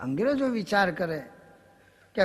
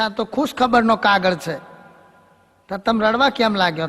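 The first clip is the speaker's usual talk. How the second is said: louder, puzzled asking; puzzled loud question; 5 dB louder than usual. Acted. Teacher to Diwali ba over the letter, loud puzzled. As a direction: ask loudly why she cries at good news.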